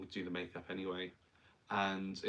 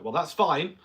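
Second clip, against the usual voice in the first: tutor; 7 semitones higher, 11 dB louder than usual. Retold or imitated. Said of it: "the tutor was like".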